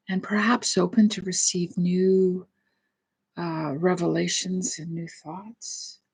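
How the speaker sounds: gentle guided meditation voice with long pauses. Real, not acted. Leads a meditation and prayer.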